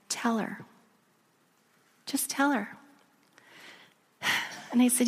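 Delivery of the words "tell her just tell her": soft, gentle nudge; quiet voice from within; hushed inner prompting. Retold or imitated. God's prompting, heard in quiet.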